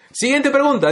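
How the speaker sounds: high, loud laughing dismissal. Retold or imitated. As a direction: brush it off with a laugh.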